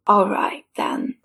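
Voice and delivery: faint whispered "all right, then"; whispered consent. Acted. Sick Richard wearily gives in to Clarissa, whispering. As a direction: breathe it out, worn and resigned.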